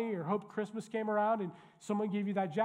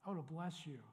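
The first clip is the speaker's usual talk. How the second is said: doting parent; 10 dB quieter than usual. Retold or imitated. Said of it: "turn your heart toward them and go".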